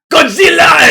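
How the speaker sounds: high, loud yell; mock shout. Comic acting out a Godzilla sighting, high mock shout. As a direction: shout it out like a monster alarm. Acting out a reply to storm chasers.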